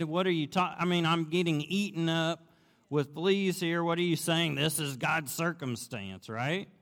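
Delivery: high, loud incredulous protest; exasperated. Retold or imitated. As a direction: scold the sister in disbelief. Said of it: "I'm sure she was like".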